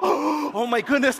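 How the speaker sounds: high, slow astonished "oh my goodness"; shocked gasp. Retold or imitated. Audience reacting to the diamond reveal, high astonished gasp. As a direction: gasp it out in disbelief.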